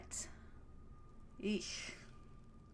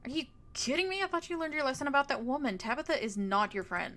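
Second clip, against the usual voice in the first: exasperated disbelief; 3 semitones higher than usual. Acted. Friend scolding the player about Tabitha, exasperated. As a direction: scold a friend who should know better.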